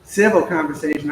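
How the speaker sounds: firm, deliberate emphasis on "Civil"; stress on Civil. Shown as a demonstration. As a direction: punch the word "Civil" as the key condition. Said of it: "I always emphasize civil".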